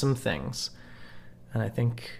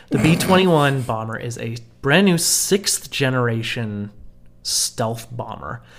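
over-the-top American announcer accent. Shown as a demonstration. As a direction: read it like a proud American. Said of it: "read this in the most American accent that I can".

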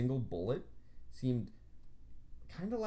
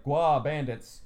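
laughing quote; 3 semitones higher, 9 dB louder, slower than usual. Retold or imitated. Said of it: "I was just like".

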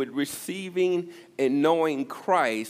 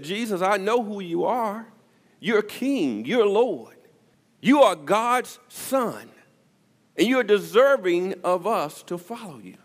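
fervent declaration; 7 semitones higher, 4 dB louder than usual. Acted. Peter's declaration voiced by preacher.

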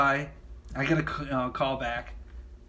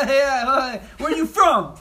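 high, forced laughing small talk; mock over-friendly, laughing through it; trying to be nice; 7 semitones higher, 5 dB louder, slower than usual. Uneasy new hire making small talk, forced friendly and high. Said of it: "I'm trying to be, like, nice".

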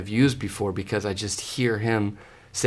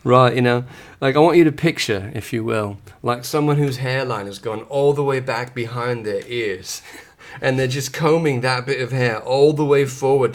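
put-on a light, casual British accent, asked for; playful put-on British accent; 4 dB louder than usual. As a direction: answer the question in a lightly done British accent. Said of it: "in British?".

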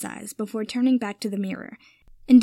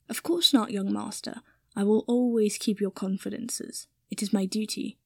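lightly voiced dutiful servant. Kipper promises young master to keep confidences, lightly voiced dutiful servant.

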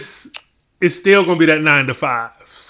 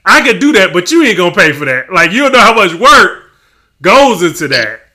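mock exasperation; 2 semitones higher, 6 dB louder than usual. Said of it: "Like, like".

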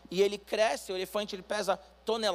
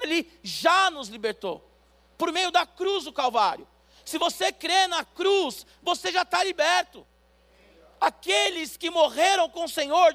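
preaching at full force; 7 semitones higher, 6 dB louder than usual. Acted. Pastor proclaiming freedom to the church, fervent loud preaching. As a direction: proclaim it to the congregation.

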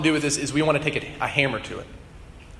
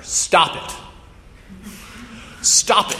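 sudden yell; 5 semitones higher, slower than usual. Acted. Therapist yells his two-word advice at patient, sudden yell. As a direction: yell it as a blunt order. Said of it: "he just yells at her".

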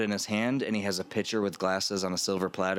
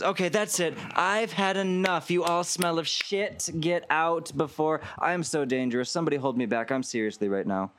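higher, slowed hammed-up threats; mock-angry Veronica; 8 semitones higher than usual. Veronica faking fury to dismiss the servants, higher. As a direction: play the tough boss to clear the room. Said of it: "She goes".

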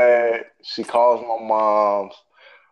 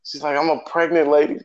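mock pleading teacher; 6 semitones higher than usual. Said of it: "pleading, like".

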